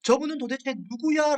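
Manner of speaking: restrained amazement, pitch climbing to the end; retold astonishment. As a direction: voice the disciples' bewildered wonder. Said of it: "라면서 놀랐다는 거죠".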